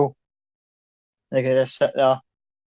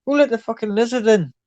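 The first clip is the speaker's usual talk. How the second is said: gruff heckler; 8 semitones higher than usual. Acted. Rough tavern type heckles lizard.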